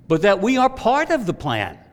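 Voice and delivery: loud, high, punching the word of; 1 emphatic proclamation. Real, not acted. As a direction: proclaim it to the congregation. Preacher proclaims key point.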